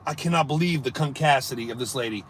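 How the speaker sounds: quiet fast grumble under breath; muttered disbelief. Retold or imitated. Streamer muttering about the lady, quiet disbelief.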